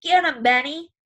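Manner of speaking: put-on boy leaning out the car window cheering the brawl; cheering shout. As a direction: egg on the fighter like at a prize fight. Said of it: "shouting like we're at a prize fight".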